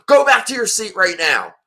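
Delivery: retold bark. Passenger ordering a disabled kid back to his seat, mild mock bark. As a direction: snap the order like a bossy passenger. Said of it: "starts barking at him".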